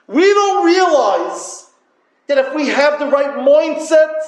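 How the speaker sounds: a preacher's rising call; emphatic preaching. Real, not acted. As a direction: lift the voice and stretch it out to grab them.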